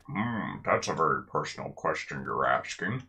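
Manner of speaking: lightly mimicked guard dodging the question; mock evasive guard. Player mimics the guard refusing to help, mock evasive. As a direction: put on a touch of a reluctant guard. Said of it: "as opposed to going".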